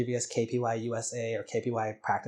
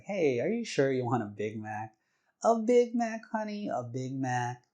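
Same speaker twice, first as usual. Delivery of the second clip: put-on playful girliness. Wife double-checking husband's order, playful and girlish. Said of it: "with her playful look, playful girliness".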